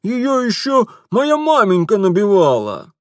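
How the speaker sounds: high, loud outraged shopkeeper; indignant shopkeeper. Acted. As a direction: spit out the insult. Shopkeeper whines. (лавочник негодует)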